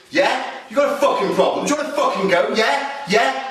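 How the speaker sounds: high-pitched aggressive pre-fight challenge; monosyllabic barks. Acted. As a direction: bark questions to intimidate before a punch. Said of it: "Monosyllabic barks".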